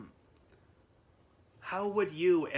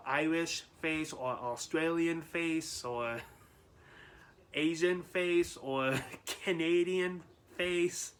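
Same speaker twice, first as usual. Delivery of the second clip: slow list broken up by laughs; trying not to laugh while talking; 3 semitones higher, slower than usual. Real, not acted. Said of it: "I shouldn't be laughing".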